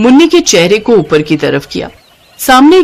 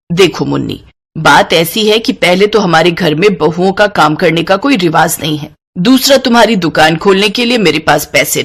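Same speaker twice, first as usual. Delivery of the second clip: stern mother-in-law. Acted. Mother-in-law refuses daughter-in-law's boutique, dismissive. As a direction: brush off the bride's dream.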